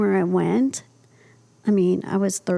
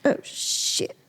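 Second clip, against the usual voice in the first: whispered oh shit; 6 dB quieter than usual. Retold or imitated. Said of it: "He goes".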